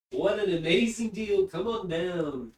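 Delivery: loud, high infomercial pitch; mock salesman. Streamer hamming up a sub deal, infomercial voice. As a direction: hype it like a TV ad.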